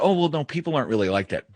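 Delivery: a light mock of the doubters; mocking naive tone. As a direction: parody someone who won't believe it.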